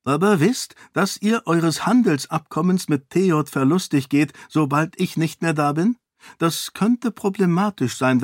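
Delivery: parry his threat with ease; calm defiant princess. Acted. Sarene presses her argument. (gelassen herausfordernd)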